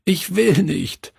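high-pitched acted child's wail; sobbing protest. A narrator's reading. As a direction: plead tearfully like a small boy refusing. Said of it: "schluchzte er".

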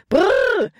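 extremely high, drawn whoa; desperate call. A narrator's reading. Nate calls to horses that will not stop, desperately. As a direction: let the cry leap up to a near squeal. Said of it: "rief er wieder".

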